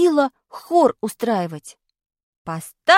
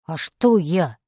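put-on much lower dull boy's voice; sluggish boy; 8 semitones lower, slower than usual. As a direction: answer dully, like a sleepy lad.

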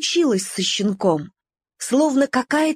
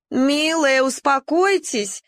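coaxing; 4 semitones higher, slower than usual. Acted. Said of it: "уговаривала Нелли".

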